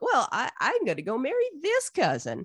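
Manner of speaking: mock-competitive comeback leaning hard on "this"; one-upping Esau. Older brother outdoing his sibling, mock-petulant retort. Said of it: "And Esau's like".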